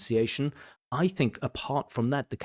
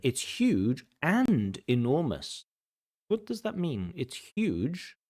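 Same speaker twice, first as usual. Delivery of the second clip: mock sing-song. Mocking redundant synonyms.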